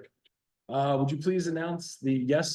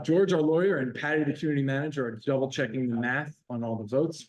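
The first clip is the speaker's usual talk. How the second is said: Marine voice. Pretend. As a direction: bark it out like a Marine. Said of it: "uh, Marine voice".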